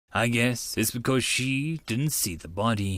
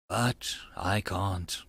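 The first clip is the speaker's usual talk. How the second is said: whisper; 7 semitones lower, 5 dB quieter, slower than usual. Acted. Narrator haunted by the body.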